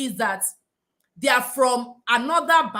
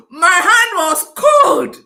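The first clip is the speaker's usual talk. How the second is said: laughing; 6 semitones higher, 12 dB louder, much slower than usual. Real, not acted. Laughing at the memory.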